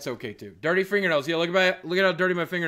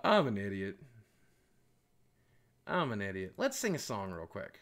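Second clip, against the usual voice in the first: breathless after laughing; 10 semitones lower, 11 dB quieter than usual. Real, not acted. After laughing fit, much quieter.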